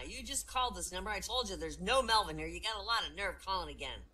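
acted irritation, pushed on the key words; anger. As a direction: tell off a nuisance caller. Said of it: "You see, that was anger".

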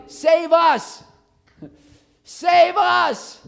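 high, loud cry of save us; crowd's shout imitated. Preacher voicing the crowd's cry to the congregation, high and loud. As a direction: call out like a desperate crowd. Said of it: "They're shouting".

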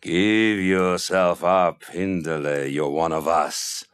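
slow, low, looming giant voice; giant from a hollow tree. Acted. A giant in a hollow tree tempts Hindele, slow and low. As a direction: call her slowly from inside the tree. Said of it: "He talked to her from a hollow tree".

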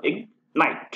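"इग्नाइट" split into ig and nite; syllable by syllable. Shown as a demonstration. Teacher showing two syllables in इग्नाइट, syllable by syllable. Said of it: "इग्नाइट में दो syllable".

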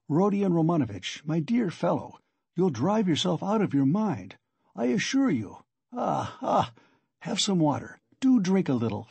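lightly alarmed, pleading fussing; anxious concern. Acted. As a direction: coax him to calm down. Alarmed host urging water.

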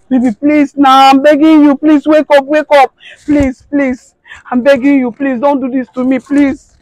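high, loud sobbing pleas; tearful begging. Acted. Wife begging her husband to wake, sobbing plea. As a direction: keep begging him through tears.

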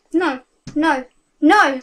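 rising to a loud no; anguished cry. Acted. Girl grieving her dying love, building to a loud cry.

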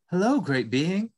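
light, eager little creature; small mouse voice. Acted. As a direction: speak up like a timid mouse. Mouse answers the buffalo.

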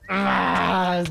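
long drawn-out "ah" cry; despairing groan. Real, not acted. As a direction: cry out in frustration. Frustrated, out of options.

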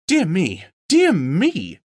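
high, fussy little voice; flustered hobbit. Acted. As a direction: fret like a nervous hobbit. Bilbo flustered and timid.

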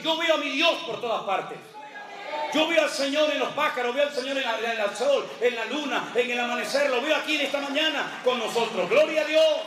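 rising shout ending in Gloria a Dios; fervent praise. Acted. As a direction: cry out your joy in God. Preacher exclaiming praise.

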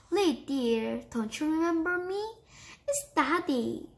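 mildly coaxing, pitch lifting on the question; a touch of tender pleading; softened voice. A narrator's reading. Cat appealing to his daughter, gently softened voice. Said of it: "Then the cat soft his voice".

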